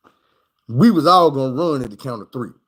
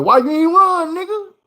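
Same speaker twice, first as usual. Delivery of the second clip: much higher, mock menacing challenge; imitating the killer. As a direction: throw the question like a threat. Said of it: "they were like".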